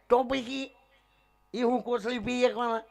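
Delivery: high-pitched, insistent question; pestering questioner. Acted. Man pesters the comic about rebirth as a dog, high questioning. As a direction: ask it high on a held note.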